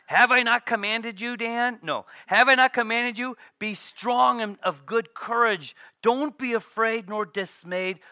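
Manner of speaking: booming proclamation of God's charge; commanding voice. Acted. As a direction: command him to be strong. Reading God's command to Daniel.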